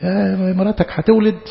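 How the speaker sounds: curt, unsmiling announcement, a bit slow; like an angel with no time for small talk; stern angel. Retold or imitated. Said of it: "مش عايز أقول مكشر يعني". (إعلان صارم ومقتضب ببطء)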